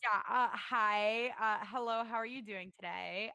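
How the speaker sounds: lightly voiced Valley Girl. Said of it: "Just do the Valley Girl voice".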